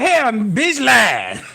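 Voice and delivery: slow, drawn mock denial; dismissive denial. Hearing the rumor, slow scornful denial. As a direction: drag it out scornfully. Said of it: "I'm like".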